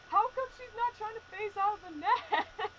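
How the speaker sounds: high character voice; voicing Jack's puzzled question; quoting a character. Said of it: "he's like".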